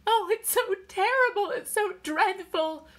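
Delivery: loud, high wail of distress; sobbing. A narrator's reading. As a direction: sob it out, high and anguished. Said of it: "Irene was sobbing".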